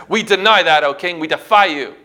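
loud, punchy refusal to a king; defiant refusal. Retold or imitated. Three men answer the king's order, defiant. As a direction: retell a bold act of defiance. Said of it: "It's defiance".

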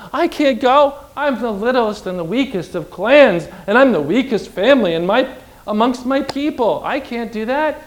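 whiny Gideon. Acted. Voicing fearful Gideon.

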